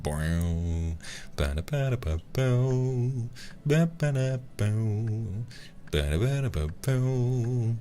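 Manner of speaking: high, drawn-out "bow" jingle by mouth; sung sound-effect sting. Shown as a demonstration. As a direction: mimic a twangy show-intro riff vocally. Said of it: "reaching for that sound effect".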